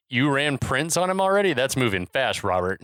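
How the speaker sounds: incredulous boss querying his agent. Retold or imitated. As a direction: question it in mild disbelief. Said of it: "Beller incredulously asks".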